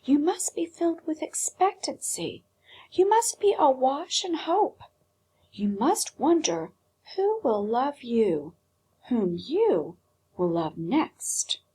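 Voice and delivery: put-on a proud old doll scolding Edward; a hint of a severe old doll lecturing; stern old doll. A narrator's reading. Old doll voice in read story.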